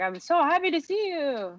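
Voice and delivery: high, put-on gushing delight; Neville overjoyed. Wizard greeting returning partner, overjoyed.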